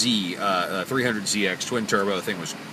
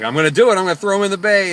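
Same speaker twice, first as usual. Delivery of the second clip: loud, higher-pitched mock threat; retold threat; 9 semitones higher, 7 dB louder, faster than usual. Driver retelling passenger threatening girlfriend at the water, loud threat. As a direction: act out a heated dare.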